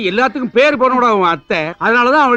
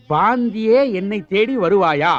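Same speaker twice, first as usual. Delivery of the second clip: 1 mock poem reading; 4 semitones lower, slower than usual. Father reads son's love poem.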